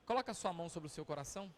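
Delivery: mais baixo e devagar, em tom de oração; oração conduzida. Acted. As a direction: conduza a igreja em oração, com calma. (pastor conduzindo a igreja em oração, suave e lento)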